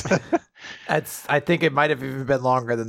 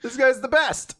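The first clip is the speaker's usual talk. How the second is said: high gushing; 8 semitones higher than usual. Real, not acted. Gushing about Luffy.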